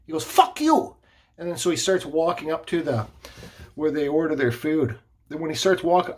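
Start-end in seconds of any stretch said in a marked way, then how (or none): 0.2-0.9 high-pitched mimicked curse; retold angry yell. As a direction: snap back as the angry man. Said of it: "he looks at me and he yells".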